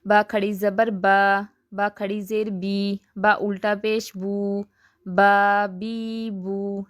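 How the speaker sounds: syllables drawn out slowly; slow spelling drill. Shown as a demonstration. Teacher showing standing vowel marks, slow drill. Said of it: "جیسے".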